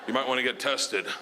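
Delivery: low, halting, hesitant delivery; deadpan, uneasy producer; awkward bad news. Producer reluctantly breaks bad news.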